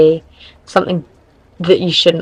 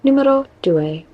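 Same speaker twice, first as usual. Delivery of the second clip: mock Italian; 8 semitones higher than usual. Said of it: "switched up the language".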